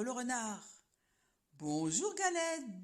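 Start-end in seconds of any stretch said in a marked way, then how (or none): 1.5-2.8 slow, sweet-talking fox; sly fox greeting. Acted. Fox to the galette, slow sly greeting. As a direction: drawl a cunning hello. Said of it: "dit le malin renard".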